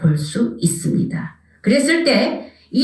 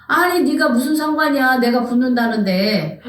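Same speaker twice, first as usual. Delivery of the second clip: defensive retort. Acted. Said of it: "나 같으면 그러니까".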